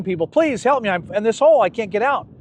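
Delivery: storyteller's playful cry for rescue; mock yell for help. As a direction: call up out of the hole, begging passers-by. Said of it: "he's yelling".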